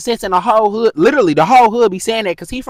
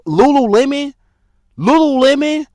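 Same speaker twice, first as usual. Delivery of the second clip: high, louder, disbelieving repeat of Lululemon; incredulous mock; 7 semitones higher, 4 dB louder than usual. Real, not acted. Vlogger scoffing at being asked for shoes, incredulous. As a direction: scoff at the very word. Mocking a silly request.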